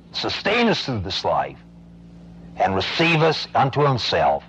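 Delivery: closing prayer. Acted. Closing prayer after sermon.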